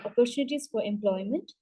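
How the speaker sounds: ordinary delivery, nothing marked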